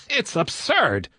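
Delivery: high, tautly amused exclamation; taut laugh. Acted. Woodbine laughing at the flying boat, tautly amused. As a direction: laugh tightly, then draw the words out high. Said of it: "He laughed tautly".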